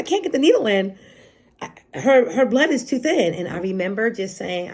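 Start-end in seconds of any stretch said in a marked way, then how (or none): 0.0-3.3 a higher, mildly urgent nurse's voice; imitated worried nurse. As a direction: lightly act out a nurse reporting trouble. Retells nurse's alarm to doctors.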